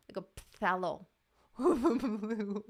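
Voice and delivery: slow lisped "phthalo blue"; lisping. Shown as a demonstration. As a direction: lisp through "phthalo" slowly. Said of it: "sounds like I have a lisp".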